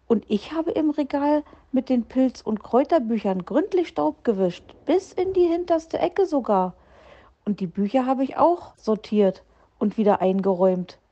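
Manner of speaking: put-on high, eager child-animal voice; a young hare boasting about dusting every corner; proud little hare. Little hare Hoppel reports his cleaning to Herr Fuchs, eager high voice.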